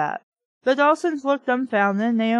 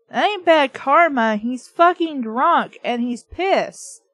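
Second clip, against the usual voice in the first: put-on louder, slower, spitting out "fucking drunk"; blunt angry retort; 3 dB louder than usual. Reader gives a blunt, scornful retort to Naomi's karma line. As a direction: scoff hard and drag out the last words.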